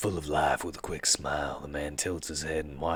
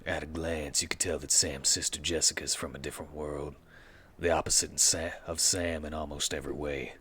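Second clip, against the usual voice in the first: noir detective narrator. Shown as a demonstration. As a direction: read it like a hardboiled detective. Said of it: "like my narrator voice? My film noir narrator voice?".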